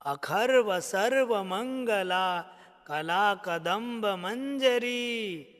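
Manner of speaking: rhythmic reading of the verse without melody; spoken recitation. Shown as a demonstration. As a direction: read it aloud the way students should. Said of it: "ऐसे पढ़ना है".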